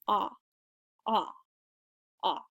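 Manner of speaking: "ah" long and loose, jaw dropped open; loose French A. Shown as a demonstration. Teacher modelling the French A for learners, loose and long. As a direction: let "ah" hang open and relaxed. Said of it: "it's gonna be very loose and long".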